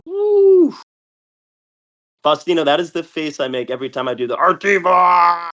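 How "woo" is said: high, loud cheer; excited whoop. Real, not acted. Big kill in the game.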